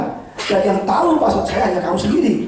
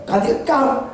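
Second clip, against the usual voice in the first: higher, puzzled questioning; retold disbelief at the account change; mild mock shock; 6 semitones higher than usual. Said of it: "Saya kaget".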